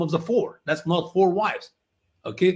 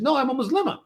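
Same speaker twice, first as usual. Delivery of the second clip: lady's voice, pitched higher; voicing the lady; 8 semitones higher, faster than usual. Retold lady on the flight, pitched higher. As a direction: answer as the Iranian lady, lightly voiced.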